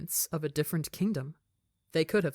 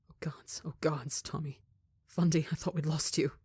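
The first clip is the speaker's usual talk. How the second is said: relieved whisper. Acted. Relieved parents over found son.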